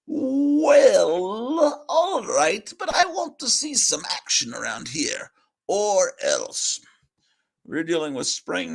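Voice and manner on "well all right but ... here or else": put-on loud, higher boss voice barking at old cat; gruff boss. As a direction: play the fed-up boss scolding his cat.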